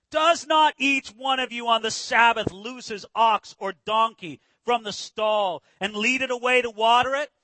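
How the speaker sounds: loud, forceful challenge; indignant. Acted. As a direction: confront him publicly with authority. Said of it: "gonna get a little bit indignant right back".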